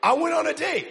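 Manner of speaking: building to a loud, proud shout; triumphant punchline. Real, not acted. Pastor to crowd, triumphantly shouting about being married. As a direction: crow it out like a victory.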